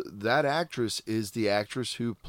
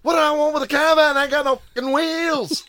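put-on Irish traveller accent; 6 dB louder, faster than usual. Snatch quote in Brad Pitt's accent.

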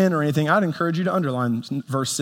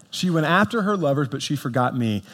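heartbroken reading. Acted. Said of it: "Can you just hear the heartbreak in that?".

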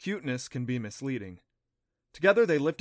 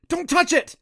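loud, much higher shout; barked warning; 12 dB louder than usual. A narrator's reading. Adam to Clancy, a loud barked warning. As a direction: bark the warning to stop her. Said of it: "Adam barked".

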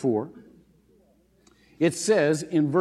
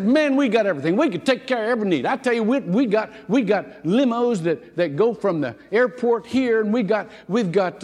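higher and louder, bragging with gusto; eager young clerk; 5 semitones higher, 4 dB louder than usual. Retold or imitated. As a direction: show off the fleet like a keen salesman. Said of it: "young, enthusiastic voice".

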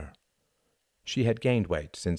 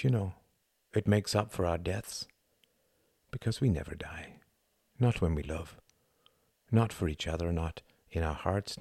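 tender, fading; 3 dB quieter than usual. Acted. Tender speech, fading to hush.

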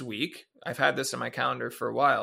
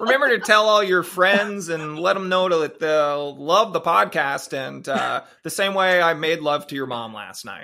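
hockey guy chirp; 2 semitones higher, 6 dB louder than usual. Pretend. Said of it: "straight from Shoresy".

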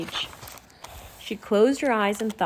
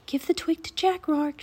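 higher, airy urgent plea; urgent appeal; 7 semitones higher than usual. A narrator's reading. Annie urging the raven to give Jack the twig, urgent appeal. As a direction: plead for the bird to obey. Pleading order to the bird.

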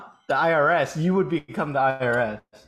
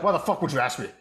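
mock cynical rant. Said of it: "You're like".

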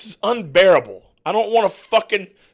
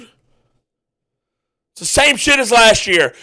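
slow, stretched-out and louder in disgust; exasperated drawl; 3 semitones higher, 4 dB louder, much slower than usual. Real, not acted. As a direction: drag every word out, fed up. Ranting fan, team losing.

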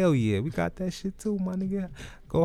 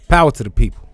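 rallying cry; 3 semitones higher, 13 dB louder, faster than usual. Acted.

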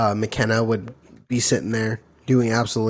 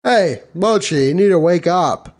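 Mochi's dad; 4 semitones higher, 4 dB louder than usual. Retold or imitated. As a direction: imitate a dad rousing his son. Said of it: "he was like".

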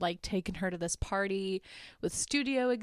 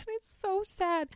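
laughing; 11 semitones higher, 5 dB quieter, slower than usual. Real, not acted. Laughing at the sad scene.

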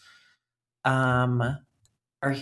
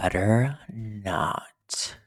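whisper; 4 semitones lower, much slower than usual. Pretend. Mock threat back to co-host.

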